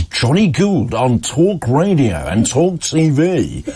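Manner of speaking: slow, drawn-out station ident; mock announcer reading the station tag; radio jingle voice.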